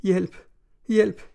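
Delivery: high, rising terrified cries; shrieking for help. A narrator's reading. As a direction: scream for help as the shadow appears. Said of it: "råbte med et hvinende skrig". (hvinende skrig om hjælp)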